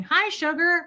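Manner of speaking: hint of a beaming father; lightly voiced cheery dad. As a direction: echo the dad's greeting lightly. Dad greeting quoted again.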